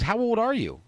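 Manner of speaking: a hint of a woman's voice; imitated woman asking. Imitating the woman asking his age.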